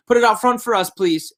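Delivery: be the small son begging his dad for the hoop; little boy pleading. Retold or imitated. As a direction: son nagging dad to put the basketball hoop out. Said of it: "Weston's saying".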